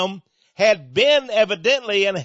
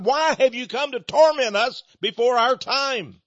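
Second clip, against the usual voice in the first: imitated demons' higher-pitched protest; crying out; 4 semitones higher than usual. Demons asking Jesus why he torments them, acted crying out. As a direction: preach it as an alarmed outcry. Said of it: "they cried out".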